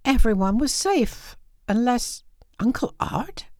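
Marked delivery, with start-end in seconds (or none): 1.7-3.5 whisper. A narrator's reading. Whispered worry about Uncle Art.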